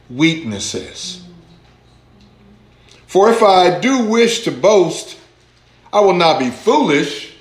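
preacher's scripture reading. Acted. Preacher reads Second Corinthians to congregation, deliberate scripture reading. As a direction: read the verse slowly to the congregation.

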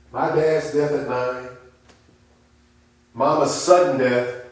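normal talking voice

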